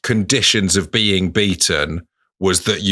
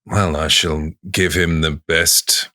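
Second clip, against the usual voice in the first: saucy. Shown as a demonstration. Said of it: "as saucy when you say it?".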